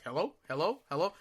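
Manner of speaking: soft, questioning hellos rising at the end; a mild impression of the operator checking the line; quiet operator hello. Operator softly asking if anyone is there.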